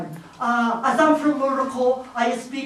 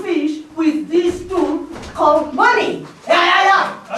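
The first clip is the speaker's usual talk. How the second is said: excited shout; 4 semitones higher than usual. Pretend. Excited native demands demonstration.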